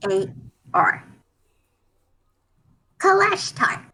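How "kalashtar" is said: "Kalashtar" said as a whole word after spelling it; sounding out a name. Shown as a demonstration. Character checking a new friend's name, sounding out "Kalashtar". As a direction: try out "Kalashtar", higher, falling at the end. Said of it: "that's how you say it".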